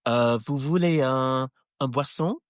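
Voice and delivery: put-on halting English-accented French; slow, fumbling attempt at schoolroom French; franglais. Englishman offering French children a drink, hesitant franglais. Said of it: "in my franglais".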